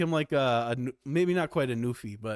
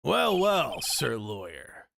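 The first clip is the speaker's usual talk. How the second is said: smug judge; slower than usual. Acted. Judge greeting the lawyer, slow and smug. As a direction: savour each word, slowly.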